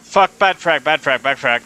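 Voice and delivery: sudden high, loud alarmed call; alarmed shout. Real, not acted. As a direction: blurt it out in alarm. Grenade mishap alarm.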